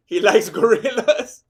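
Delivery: slow, lightly put-on voice; a half-hearted impression, drawn out; lightly voiced impression. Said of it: "That's the best I can do right now".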